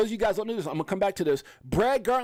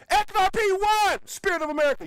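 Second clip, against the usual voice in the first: high, loud victory shout; triumphant cheer with a laugh; 13 semitones higher, 3 dB louder than usual. Real, not acted. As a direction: celebrate the win out loud. Celebrating XRP win.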